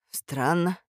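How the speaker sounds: a touch of a quavering, moved voice; trembling voice. Acted. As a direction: let the voice waver slightly on «Странно». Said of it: "дрогнувшим голосом".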